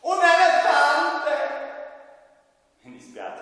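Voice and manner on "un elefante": excited slow puppet shout. Acted.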